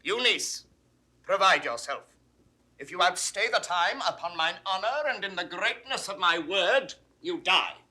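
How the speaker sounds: loud, commanding sentence; stern threat. Acted. Duke threatening his banished niece with death, stern. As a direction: pronounce the penalty with force.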